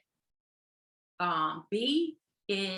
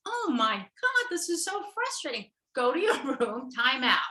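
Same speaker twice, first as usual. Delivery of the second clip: frustrated parent; 2 semitones higher, 5 dB louder than usual. Retold or imitated. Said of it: "And then the A goes".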